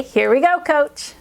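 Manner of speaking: rallying, lifted call to a teammate; upbeat cheer. Shown as a demonstration. Child greets the reading coach with a high five, upbeat cheer. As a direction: cheer it brightly to your coach. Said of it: "give them a high five and say".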